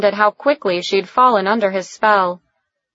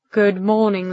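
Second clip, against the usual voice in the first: soothing. Acted. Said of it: "he said in a soothing tone".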